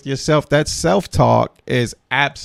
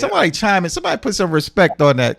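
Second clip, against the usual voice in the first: excited rallying; 6 semitones higher, 5 dB louder, faster than usual. Real, not acted. Host rallying panel to respond.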